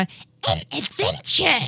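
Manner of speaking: swooping, animated cartoon-style voice bouncing up and down. Describing what Toad always says before a level starts, in a Toad voice. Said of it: "Toad sagt, bevor das, das Level losgeht, immer".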